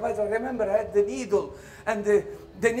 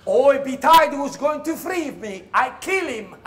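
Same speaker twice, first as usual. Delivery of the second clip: loud laughing boast, higher; hammed-up laughing loyalty; mock cheerful slave; 5 semitones higher, 7 dB louder than usual. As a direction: play the overjoyed slave. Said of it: "I would say".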